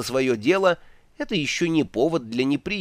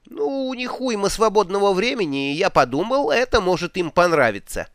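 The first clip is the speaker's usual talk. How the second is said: запыхавшись; 7 semitones higher than usual. Acted. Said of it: "задыхаясь, выговорил Два Цветок".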